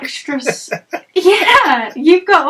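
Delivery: laughing through the words. Real, not acted. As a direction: break into laughter mid-word. Laughing mid-sentence.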